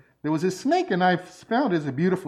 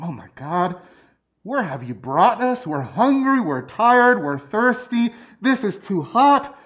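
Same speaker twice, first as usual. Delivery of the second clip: mock grumbling; 3 semitones higher than usual. Preacher voicing Israelites grumbling in the desert, mock whiny complaint. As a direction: voice the people's moaning about heat and hunger. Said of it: "they start grumbling".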